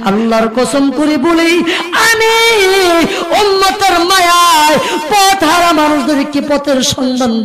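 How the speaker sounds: melodic sermon chant swelling into high cries; impassioned waz preaching. Acted. Nephew refusing his uncle's offers, in impassioned preaching chant. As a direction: preach it as a pleading chant with stretched endings.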